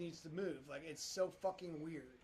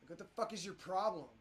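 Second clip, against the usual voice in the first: louder, exasperated ranting at the screen; angry outburst; 2 semitones higher, 5 dB louder than usual. Real, not acted. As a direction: vent at the software. Yelling at the sculpting program.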